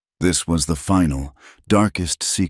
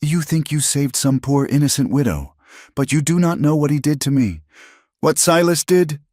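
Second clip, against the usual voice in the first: high, strained accusing voice; wounded widow unloading years of pain; Clara, desperate; 10 semitones higher than usual. A narrator's reading. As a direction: pour out the hurt, pitched high.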